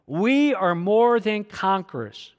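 slow, measured read-along delivery; deliberate, drawn-out recitation; leading group reading. Real, not acted. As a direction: lead the room through it slowly, word by word. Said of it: "Read it with me".

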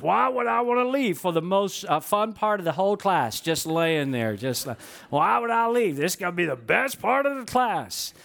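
a mock booming voice for his big friend; big booming buddy. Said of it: "this big voice".

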